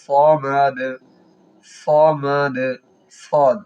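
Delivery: সমাদ with a crisp light s; clear sin. Shown as a demonstration. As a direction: start সমাদ on a clean sharp s. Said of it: "সিনের উচ্চারণ না হয় খেয়াল করবেন".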